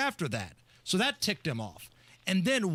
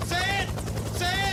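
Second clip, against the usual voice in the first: imitating Trump; 11 semitones higher than usual. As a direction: bark it like a president over rotor noise. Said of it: "Donald Trump going".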